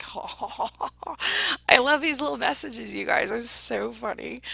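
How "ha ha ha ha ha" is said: imitating someone's laugh; mock laugh, spelled out in ha's; imitated laugh. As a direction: act out her laughter. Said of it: "She's like".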